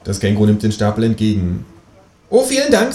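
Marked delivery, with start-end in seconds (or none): 2.3-2.9 high, mock-polite kangaroo; high-pitched talking-animal courtesy. A narrator's reading. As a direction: thank brightly in a high creature voice. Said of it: "sagt es".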